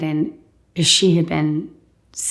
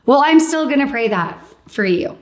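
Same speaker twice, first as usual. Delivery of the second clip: higher, stubbornly cheerful; lightly mock the priest's insistence; playful insistence; 8 semitones higher, 3 dB louder than usual. Priest cheerfully insists to the patient, voiced higher.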